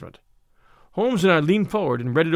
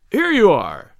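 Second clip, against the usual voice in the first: loud, triumphant call; the lawyer bursting in, calling out loud; cried out; 4 semitones higher, 6 dB louder, slower than usual. Acted. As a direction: burst in shouting the news. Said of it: "he cried".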